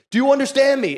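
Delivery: hammed-up angry demand; imitated yelling. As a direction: drive the question home as an acted threat. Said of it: "he's just yelling in this guy's face".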